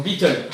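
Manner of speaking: Beatle said as bitœl, French-style, with no final s; French accent. Shown as a demonstration. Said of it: "avec l'accent français".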